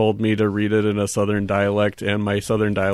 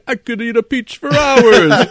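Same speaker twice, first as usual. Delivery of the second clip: higher, louder goofy creature; trog voice; 13 semitones higher, 8 dB louder than usual. Pretend. Pretending to be a trog who loves peaches, goofy. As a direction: gobble the line like a hungry trog. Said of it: "If I were a trog, I'd say".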